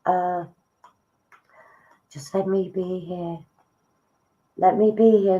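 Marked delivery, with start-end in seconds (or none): 4.6-5.4 higher, louder channelled voice; a spirit taking over the medium's voice; spirit speaking through. Acted. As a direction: let the spirit speak through you, lifting up. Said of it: "that's not me, that's spirit".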